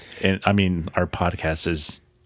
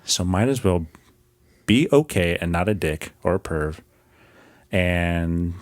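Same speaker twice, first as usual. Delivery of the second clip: calming; 2 semitones lower than usual. Real, not acted. Host sends a thirty-second message to the world, calming. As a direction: calmly reassure the whole world, phrase by phrase. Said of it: "I said it in a calming way".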